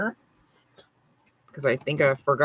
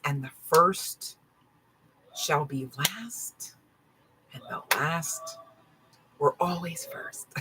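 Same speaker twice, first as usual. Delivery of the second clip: slow pronouncement; 5 dB quieter, slower than usual. Acted. Slow dramatic biblical pronouncement.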